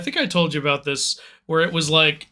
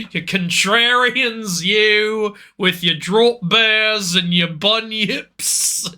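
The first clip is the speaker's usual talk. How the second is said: hammed-up rant at the Aussies, drawn out; Nigel Thornberry rant. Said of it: "You're Nigel Thornberry".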